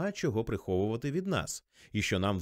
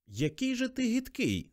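high, slow and full of contempt; disgusted; 13 semitones higher than usual. A narrator's reading. Daisy tells Tom his disgusting, slow scornful high voice. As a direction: draw it out with disgust. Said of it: "сказала Дейзі".

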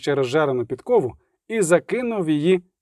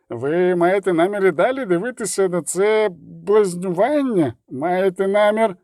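higher, indignant questioning; angry demand; 4 semitones higher than usual. A narrator's reading. Zoltan demands the elder end the clowning, angrily. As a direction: challenge him with rising indignation. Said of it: "крикнув гнівно Золтан".

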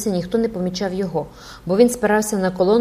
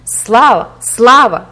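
very loud, higher roar; crowd roaring; 4 semitones higher, 12 dB louder, much slower than usual. A narrator's reading. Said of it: "ревнула юрба".

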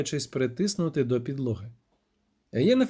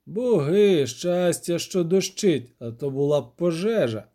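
angry shouting; 2 semitones higher than usual. Acted. Mayor raging at the demon.

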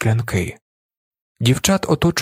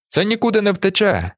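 much higher shouted call; shouting; 10 semitones higher than usual. A narrator's reading. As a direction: call up to the window at night. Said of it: "крикнув Віллі".

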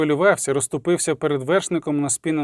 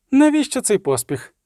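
high, querulous question; voiced poet; 9 semitones higher than usual. A narrator's reading. Poet behind the witcher questioning haste, high voice. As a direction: ask in the poet's high voice.

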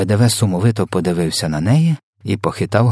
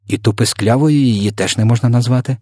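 raised, louder indignant retort; a girl getting crosser, pitched up; growing cross; 5 semitones higher, 5 dB louder than usual. A narrator's reading. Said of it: "що ставала дедалі сердитіша".

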